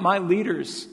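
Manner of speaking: high, rhetorical outcry; imagined cry. Retold or imitated. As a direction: call it out as a preacher would. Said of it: "Why wouldn't he cry out".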